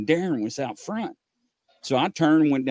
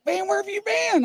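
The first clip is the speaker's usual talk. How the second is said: imitated officer. Voices officer back at store.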